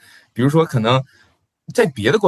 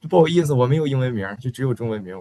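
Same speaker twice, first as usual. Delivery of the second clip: habitual quick reply; faster than usual. Retold or imitated. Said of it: "我就习惯性地这么说了".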